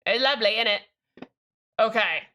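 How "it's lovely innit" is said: put-on joking British accent. Teasing the British people, mock British accent. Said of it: "very sorry to all the British people".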